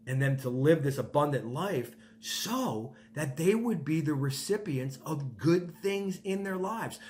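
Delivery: rising, earnest, yearning plea; God's unselfish wish. Acted. God wishing good for people's kids, earnest rising plea. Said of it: "He says".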